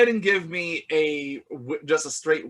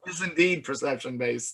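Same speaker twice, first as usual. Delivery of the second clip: mock whisper; 2 semitones lower, 6 dB quieter than usual. GM answers a pedantic question.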